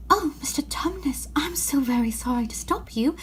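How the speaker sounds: a hushed, whispered apology; soft whisper. Acted. Girl whispering an apology to the faun, soft and hushed. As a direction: whisper it gently so as not to offend.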